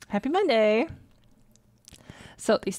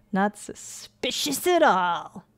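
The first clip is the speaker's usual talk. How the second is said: sarcastic; much slower than usual. Real, not acted. Sarcastic comment.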